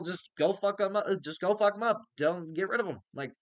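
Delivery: rally the troops, let rip; angry order. Retold or imitated.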